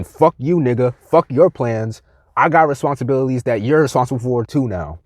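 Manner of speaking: mock someone throwing your plans back at you; mimicked dismissal. Voices people spitting in his face.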